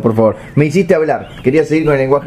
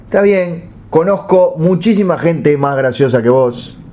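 said ugly; 4 semitones higher, slower than usual. Shown as a demonstration. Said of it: "yo podría decirte algo que sonara feo".

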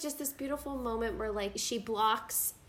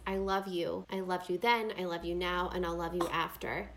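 tender; 4 semitones lower than usual. Retold or imitated. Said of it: "and she says".

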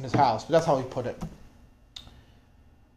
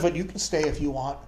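low and much softer, just to him; quiet offer; 7 semitones lower, 9 dB quieter than usual. Retold or imitated. The pastor turning quietly to the shy soldier, low offer. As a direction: say it aside so the others miss it.

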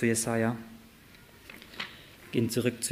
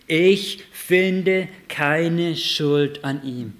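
slow, loud and higher solemn pronouncement; Pilatus' verdict; 4 semitones higher, 6 dB louder, much slower than usual. Acted. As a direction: declare it slowly like a judge.

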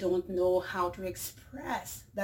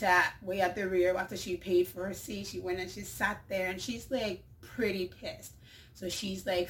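ordinary delivery

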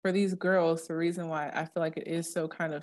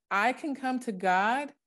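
slow and higher, I can come to God stressed on can; dramatic realization; 6 semitones higher, slower than usual. Shown as a demonstration. Voicing the reader's amazed inner response to the verse. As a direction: marvel at it, slowly and high. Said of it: "you're like".

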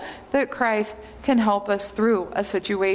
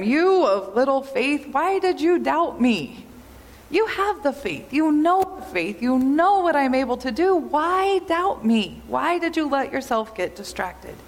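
gentle rebuke; 3 semitones higher than usual. Retold or imitated. Jesus chiding Peter for doubting, mild rebuke.

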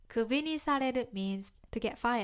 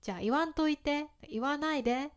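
sarcastic retort; 3 semitones higher than usual. Shown as a demonstration. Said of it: "みたいな感じね".

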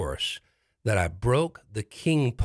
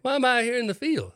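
dazed bewilderment; 13 semitones higher than usual. Retold or imitated. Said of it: "I'm looking around and going".

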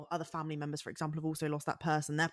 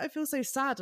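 laughing mock sadness; 9 semitones higher, 3 dB louder than usual. Laughingly retells own film tears.

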